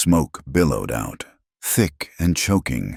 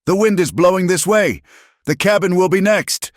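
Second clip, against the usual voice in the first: much higher and louder warning shout; urgent roared warning; commanding roar; 4 dB louder than usual. A narrator's reading. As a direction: bellow the warning over the crackle of flames. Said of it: "his voice a commanding roar".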